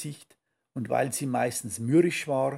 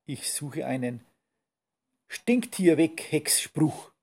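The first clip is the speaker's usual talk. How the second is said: grumpy mutter. Acted. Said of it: "brummte die Hexe schlecht gelaunt".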